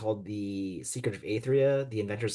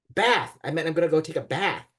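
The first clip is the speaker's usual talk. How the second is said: put-on much higher, louder flustered girl; flustered correction; 5 semitones higher, 5 dB louder than usual. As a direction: blurt out the fix in embarrassment. Freddie corrects embarrassing slip.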